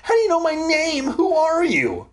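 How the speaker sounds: very high, fast panicked questions; voice rising. A narrator's reading. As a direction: fire the questions out high and frantic. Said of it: "My voice started to rise".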